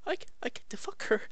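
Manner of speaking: soft unvoiced whisper; hushed mock thought. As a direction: whisper it like a sly secret. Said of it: "It's like".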